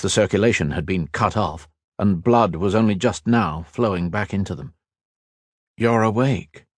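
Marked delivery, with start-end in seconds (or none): 5.8-6.7 gently voiced kindly man; a touch of kindly welcome. A narrator's reading. Healer to the waking patient, kindly. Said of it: "said a kindly male voice".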